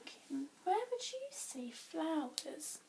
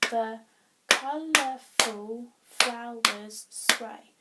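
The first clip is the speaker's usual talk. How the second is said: "The colourful flowers sway" loud, slow, every syllable separate; counting syllables; 9 dB louder, much slower than usual. Shown as a demonstration. Teacher testing if the second line works, loud separate beats. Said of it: "Let's see if that works".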